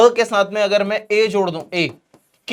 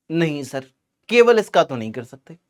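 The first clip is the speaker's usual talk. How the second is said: lightly voiced students answering, lower; students' reply; 5 semitones lower than usual. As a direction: answer as the class would, a bit subdued. (छात्रों की ओर से हल्का-सा दबा हुआ जवाब)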